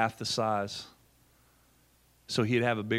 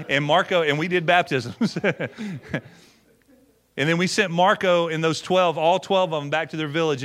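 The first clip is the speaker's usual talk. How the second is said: excited; 4 semitones higher, 5 dB louder than usual. Real, not acted. Joyful baptism climax of story.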